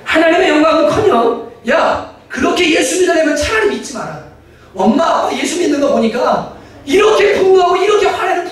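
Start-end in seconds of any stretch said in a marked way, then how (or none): 1.7-8.5 put-on higher, raised voice of a fed-up child; imitated child scolding parents, raised and higher; mock reproachful outburst. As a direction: scold the parents for their anger.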